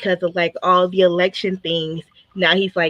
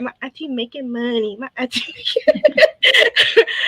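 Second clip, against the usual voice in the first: niece's boast; 5 semitones higher, slower than usual. Retold or imitated. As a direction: imitate a little girl's boast, breaking into laughter. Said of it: "She's like".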